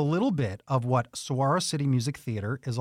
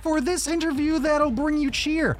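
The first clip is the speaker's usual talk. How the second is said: silly rhyming host; 3 semitones higher than usual. Acted. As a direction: ham up a storybook rhyme. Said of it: "I'm a real silly guy".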